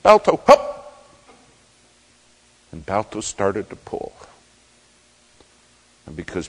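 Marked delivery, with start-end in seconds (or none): 0.0-1.1 slow, high, loud command to the dog; drawn-out shout. Retold or imitated. Musher urging Balto to stand and pull, drawn-out shout. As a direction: stretch the call out to the dog. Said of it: "He said".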